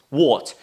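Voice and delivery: British "What" with rounded O; teacher repeating "What" with an O sound. Shown as a demonstration. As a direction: model "What" alone, O vowel, falling. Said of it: "It's O sound".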